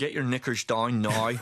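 playful Northern Irish accent. Shown as a demonstration. Actor showing his one accent phrase, Northern Irish accent. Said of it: "Northern Irish is one of the ones".

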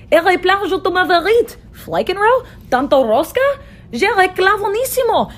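gibberish faux-foreign babbling; mock babble. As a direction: rattle off nonsense like a lost language. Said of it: "they were all babbling".

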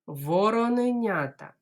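Вороненята said briskly in one go; fast Вороненята for the class; quickly. Shown as a demonstration. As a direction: run it together fast. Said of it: "спробуємо швидко сказати".

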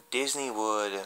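hushed unvoiced name; secret whisper. Vlogger revealing the hidden park, whispered.

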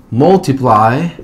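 multiply said slowly, final Y as "eye"; long I sound. Shown as a demonstration. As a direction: draw out multiply, ending on a clear "plai". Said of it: "la Y también tendrá un sonido I". (multiply lento, con la Y como "ai")

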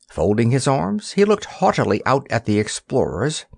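usual speaking voice

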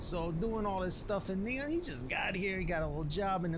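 lightly put-on swaggering streetwise narrator; a hint of a cocky wasteland chef telling a legend; Ghost Chef voice. Explaining the legend of this guy, a lightly voiced cocky chef. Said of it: "I'm just basically doing it as his voice".

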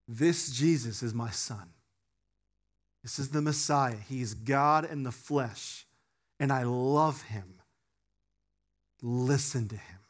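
solemn voice of God. Acted. God speaking to disciples.

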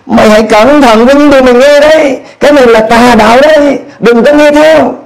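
a hint of anxious leaders cautioning a student; warning friends. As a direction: mimic the worried friends telling him to beware. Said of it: "Họ nói".

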